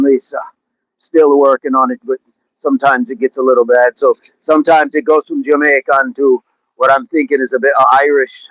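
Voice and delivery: lightly put-on Jamaican lilt; Jamaican accent. Shown as a demonstration. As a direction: attempt a Jamaican accent that slips toward Irish. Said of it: "like a Southern Jamaican accent".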